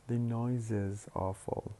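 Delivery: slow, with "is" a distinct syllable after "noise"; separate syllable. Shown as a demonstration. Teacher illustrating the rule, "is" said slowly as a separate syllable. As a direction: sound out "noise is" as two syllables. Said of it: "pronounce the auxiliary as a separate syllable".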